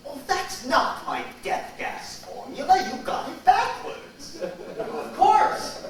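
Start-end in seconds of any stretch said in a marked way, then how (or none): 2.9-5.8 laughing realization. Acted.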